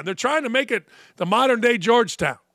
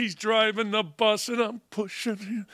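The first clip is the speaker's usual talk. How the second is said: soft, far-off Kramer voice; a muttered Kramer impression; quiet mock Kramer; Kramer imitation; 7 dB quieter than usual. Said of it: "I did a really good imitation right there".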